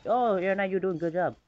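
cheery imitation of a thumbs-up; lightly voiced proud teammate; mock cheerful praise. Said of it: "It just says that".

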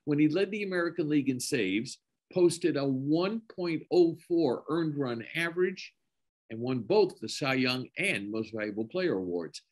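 measured, read-out guest introduction; announcer introduction. Acted. Host introducing a Hall of Fame guest to the audience, formal announcer read. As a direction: present an honoree with deliberate pauses.

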